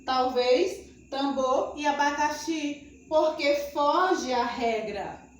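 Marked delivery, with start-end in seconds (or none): 0.0-3.0 mock student. Teacher voices student objection.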